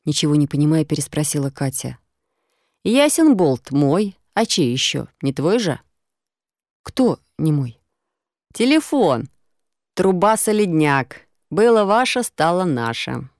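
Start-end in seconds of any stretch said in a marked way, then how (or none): 2.9-13.3 cocky finder. Acted. Rough passer-by gloats to the girl over the found phone. Наглый прохожий нашёл телефон.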